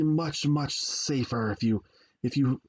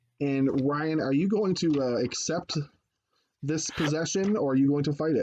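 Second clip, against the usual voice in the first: ordinary delivery, nothing marked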